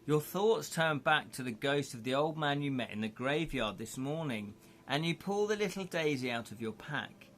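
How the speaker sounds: calm storyteller read; story narration. Acted. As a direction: guide the listener through the scene. Reads gamebook scene aloud.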